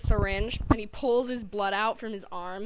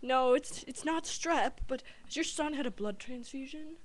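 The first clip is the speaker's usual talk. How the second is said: doctor; 4 semitones higher than usual. Retold or imitated. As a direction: put on a careful doctor's voice. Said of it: "And the doctor's like".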